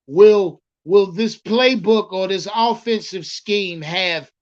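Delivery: slow, deliberate quoted question; measured retelling of a question; quoting the reporter. Retold or imitated. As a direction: spell out the reporter's question slowly. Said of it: "This is how they said it".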